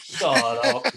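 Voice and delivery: high-pitched retort to hecklers; retold comeback. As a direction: fire back in a high voice.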